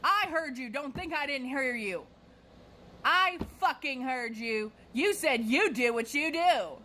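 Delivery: high, emphatic mock shout; hammed-up indignant insistence; retold angry accusation. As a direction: accuse like an outraged customer, hitting each word.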